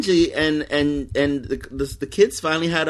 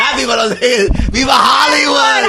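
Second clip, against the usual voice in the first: high, loud outburst; real high-pitched, excited yelling; excited shout; 11 semitones higher, 8 dB louder than usual. Real, not acted. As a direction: shout the correction, drawing out the last words. Excited correction about reality show winner.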